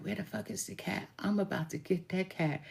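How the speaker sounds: mock-menacing under the breath. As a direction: quietly threaten the cat. Angry threat after cat attack.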